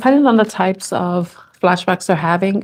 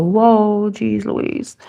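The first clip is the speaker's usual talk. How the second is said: crying; much slower than usual. Real, not acted. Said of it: "I don't like crying on camera".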